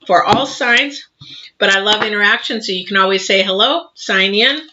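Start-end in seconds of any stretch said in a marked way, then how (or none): 1.6-4.6 mouth full. Real, not acted. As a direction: still chewing cookie dough. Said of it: "Sorry, I still got cookie dough in my mouth".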